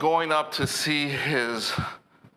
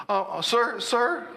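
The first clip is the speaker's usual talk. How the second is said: hesitant call back; 11 semitones higher than usual. Retold or imitated. Driver calling trooper back.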